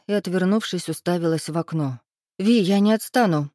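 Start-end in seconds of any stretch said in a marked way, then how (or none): 2.4-3.5 firm, louder warning; sternly, leaning in; stern hint. A narrator's reading. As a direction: insist she won't back off. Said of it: "строго намекнула подруга".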